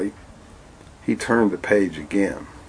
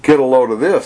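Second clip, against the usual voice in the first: mocking father; 4 semitones higher, 5 dB louder than usual. Father mocks.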